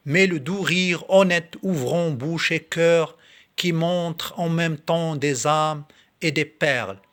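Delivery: measured verse reading, slightly lifted above normal talk; poem recitation. Acted. Reading Victor Hugo's poem to video viewers, in recitation voice. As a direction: recite it line by line, pausing between phrases.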